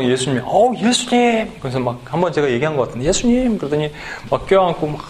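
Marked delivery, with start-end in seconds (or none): 0.4-1.6 high, drawn-out cry of welcome; delighted greeting. Acted. Host greets Jesus at the door, delighted. 3.1-3.6 high-pitched joyful call; delighted greeting. Acted. Skit host welcomes Jesus, delighted.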